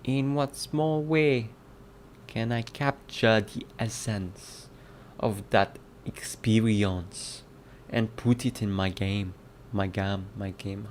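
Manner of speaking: halting attempt at a Jamaican accent. Shown as a demonstration. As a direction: feel your way through a mock Jamaican accent. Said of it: "how do you say game in".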